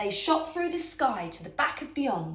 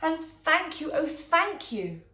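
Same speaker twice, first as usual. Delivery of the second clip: grateful thanks; 6 semitones higher than usual. Acted. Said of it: "the grateful witch cried".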